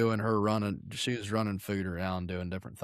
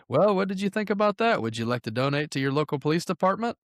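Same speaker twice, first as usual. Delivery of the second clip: mock caller voice; 7 semitones higher, 4 dB louder than usual. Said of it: "he was like".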